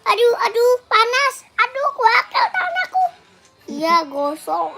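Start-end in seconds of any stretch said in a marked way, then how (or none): 0.1-3.0 playful ouch, it burns; hammed-up yelps of pain; mock pain cries. Burnt hand by firecracker, playful.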